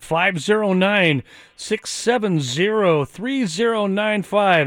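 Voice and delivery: slow, each digit set apart; measured slow number read; slow dictation. Shown as a demonstration. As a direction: read the number out slowly for listeners to copy. Reading out the phone number.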